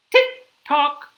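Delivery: high, crisp tick-tock; clock ticking. Acted. Reader reviews the clock, crisp ticking. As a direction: click it out like a clock. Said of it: "He can sound like a clock".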